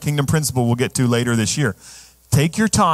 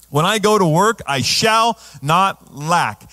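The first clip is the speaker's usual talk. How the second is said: preached shout; 3 semitones higher, slower than usual. Acted. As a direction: declare it with full force. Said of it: "preaching declaration, shout".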